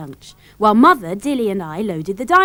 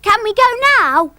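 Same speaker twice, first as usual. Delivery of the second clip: high, loud, eager plea; excited child; 13 semitones higher, 7 dB louder than usual. A narrator's reading. Dilly begging Father to leave for the beach, excited. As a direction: beg loudly, bursting with excitement. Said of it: "jumped up and down with excitement".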